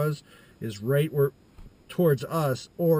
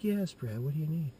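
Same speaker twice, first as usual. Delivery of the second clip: a hint of a higher, kindly mother; lightly voiced mom; 4 semitones higher, 4 dB quieter than usual. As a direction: answer the boy as his mom, lifting the pitch. Mom voiced answering the boy.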